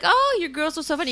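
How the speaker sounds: imitating Leah. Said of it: "She's like".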